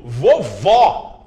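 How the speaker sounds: vovó with the last syllable vó pushed out; vovó, accent on open vó; stressed final vó. Shown as a demonstration. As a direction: lean hard on vó in vovó. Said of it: "vovó é tônico".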